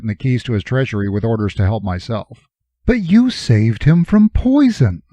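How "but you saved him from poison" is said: Jory's voice. Acted. Jory objects.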